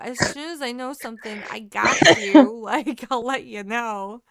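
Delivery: loud, emphatic fending-off; exasperated insistence. Retold or imitated. Dog-sitter fending off curious neighbors, exasperated insistence. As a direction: hold off the questioners with hammed-up firmness. Retold reply to nosy neighbors.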